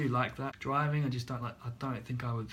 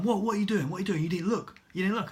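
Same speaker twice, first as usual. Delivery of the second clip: mildly raised, pressing quote; reproachful challenge; 5 semitones higher, 4 dB louder, faster than usual. Retold or imitated. Instructor to learner after pulling out, mock reproach. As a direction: imitate an instructor pulling someone up.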